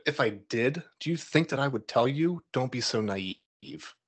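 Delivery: mask-off retort, last words slowed way down; serious cold warning. Retold or imitated. Golden Dawn elder drops the joke, warning the speaker coldly. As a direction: let the jokey tone drop into a dead-serious put-down. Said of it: "and this is the way he said it".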